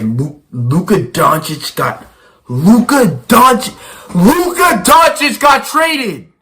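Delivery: high, loud, slow yell, hoarse voice cracking; retold yell. To his friend Jaden in the car, yelling the trade news high and loud. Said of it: "I yelled it".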